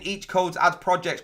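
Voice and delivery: ordinary delivery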